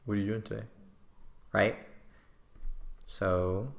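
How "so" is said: "So" stretched out lazily, lower; drawl. Shown as a demonstration. Coach showing how to open small talk, drawl. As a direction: draw out the word "So". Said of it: "kind of a drawl".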